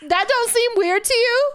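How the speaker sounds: high, loud witchy screech; shrill witch voice. Real, not acted. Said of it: "You're making me sound like the Wicked Witch now".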